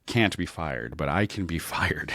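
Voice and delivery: laughing through the words; laughing while talking. Retold or imitated. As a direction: laugh as you protest. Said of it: "And I was like".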